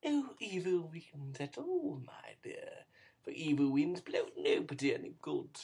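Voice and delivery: put-on soft, sly old man's whisper; a hushed wheedling old villain; Fagin's wheedle. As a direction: coax him quietly, oily and sly.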